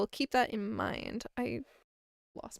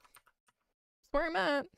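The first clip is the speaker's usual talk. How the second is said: slow drawl; 5 semitones higher, much slower than usual. Acted. Drawn-out comic line.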